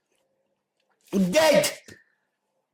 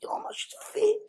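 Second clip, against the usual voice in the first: men admiring her; 5 dB quieter than usual. Retold or imitated. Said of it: "men are looking, thinking".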